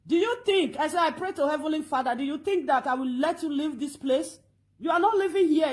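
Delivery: loud and defiant; angry shout. Retold or imitated. Woman daring the stranger to leave, loud and defiant. Heated reply to the man.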